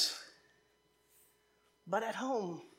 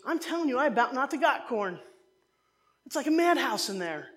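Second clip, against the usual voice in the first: raised, louder voice of a worked-up mom; imitating harried mom; 3 semitones higher, 5 dB louder than usual. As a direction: retell mom's flustered report with mock urgency. Mom's harried market report, acted.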